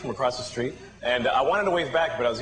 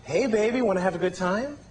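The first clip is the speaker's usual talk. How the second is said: hooker; 6 semitones higher than usual. Acted. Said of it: "a superhero being propositioned by a hooker".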